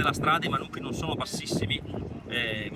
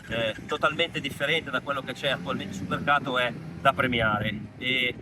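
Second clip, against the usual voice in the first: thin earbud microphone sound; recorded on AirPods mic; AirPods mic audio. Real, not acted. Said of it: "scusate l'audio di questo video che, sto facendo con l'AirPods per problemi ai microfoni".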